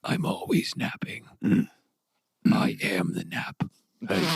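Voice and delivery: slow raspy creature whisper; hissing reptile growl. Acted. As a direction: drag it out, hissing. Weasel keeps its voice.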